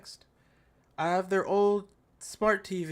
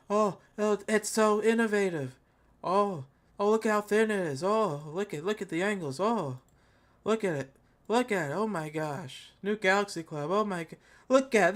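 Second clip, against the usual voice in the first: sarcastic oohs and aahs at the phone; mock awe. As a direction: gush over it as if dazzled, all sarcasm. Mocking the ad's hype.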